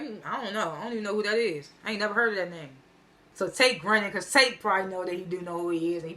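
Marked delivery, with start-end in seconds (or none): 0.0-2.7 soft, unbothered denial; calm and collected. Retold or imitated. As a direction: play it cool, voice dropped softer. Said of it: "he calm and collect".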